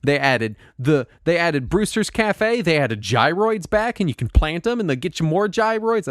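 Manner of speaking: eager, gushing list of new features; excited fan, dwelling on each item. Real, not acted. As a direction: reel off each addition with delight. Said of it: "I'm so excited".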